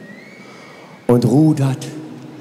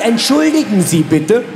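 höfliche Frau; slower than usual. Acted. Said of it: "dass sie sagt".

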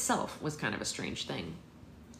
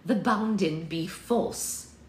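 put-on old crone mumbling; 4 semitones higher, 5 dB louder, much slower than usual. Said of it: "mumbled the voice from behind her".

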